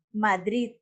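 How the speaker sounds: "Madrid" with the force on "drid"; stress on last syllable. Shown as a demonstration. Teacher gives an example of agudas, "Madrid" stressed at the end. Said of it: "la fuerza se le da a la última sílaba".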